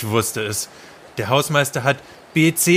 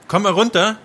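"mal" stressed in a high call; higher calling out; 8 semitones higher, 3 dB louder than usual. Acted. Calling the others down. (hoch rufend, Betonung auf "mal")

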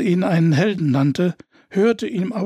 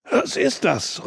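wheezing; 4 semitones higher than usual. A narrator's reading. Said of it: "röchelte Ingolfur".

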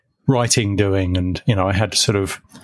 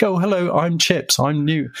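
higher, a bit taken aback and polite; flustered reply; 7 semitones higher than usual. Retold or imitated. New employee answering the caller, flustered and higher. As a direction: caught off guard, introduce yourself meekly.

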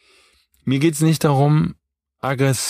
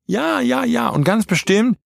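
much higher, mocking "ja, ja"; sarcastic yes-yes; 12 semitones higher than usual. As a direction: roll your eyes through it. Ironic concession about rude men.

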